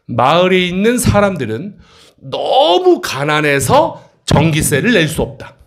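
slow read-aloud, stretching and lifting 너무; demonstrated reading. Shown as a demonstration. Teacher showing the class how to read the sentence, slow emphatic read-aloud. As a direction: read it out slowly, leaning hard on 너무. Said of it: "이렇게 읽습니다".

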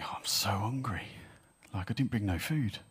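soft, half-whispered mock grumble; murmuring crowd. Hungry people murmuring among five thousand, half-whispered grumble. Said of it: "he hears the murmurs of people going".

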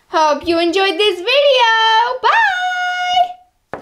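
singsong sign-off with a high bye; cheerful outro; vlogger sign-off. Acted. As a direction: wave goodbye to the viewers. Vlog outro to camera.

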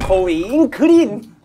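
slow announcer roll call; drawn out hero name call; Power Rangers roll call. Acted. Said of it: "고잉레인저 해야 된다고".

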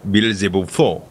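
slow, drawn-out go at a French accent. Shown as a demonstration. Friend asked to say the frog's name, attempted French accent. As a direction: try "Beelzebufo" slowly in a French accent. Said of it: "in the French accent, say".

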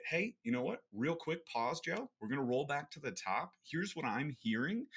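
high, bright coach interrupting; mock facilitator pausing the drill; facilitator calling pause. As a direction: stop the role play with a friendly high call. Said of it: "is gonna say".

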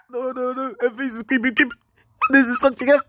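high, soft squeamish protest; high-pitched mock dismay; creeped-out refusal. Real, not acted. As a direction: back away in a small high voice. Recoils from a creepy face.

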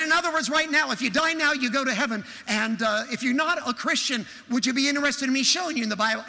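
loud, high, urgent sales pitch; pressing a stranger, loud and high; forceful witnessing pitch. Retold or imitated. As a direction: fire the questions out at full volume. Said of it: "that's about the way I said".

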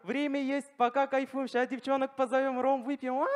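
carefree. Acted. Беззаботный студент тянет время.

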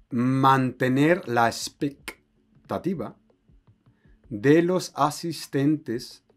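slow, measured teacher's read-aloud; slow dictation. Shown as a demonstration. Teacher reading a translation out to students, slow dictation. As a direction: read it out word by word with pauses. Reads the text out slowly.

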